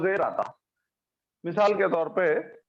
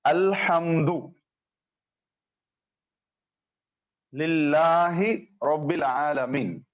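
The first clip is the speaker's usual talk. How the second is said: Quran recitation. Shown as a demonstration. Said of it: "Quran करीम में आप देखिए".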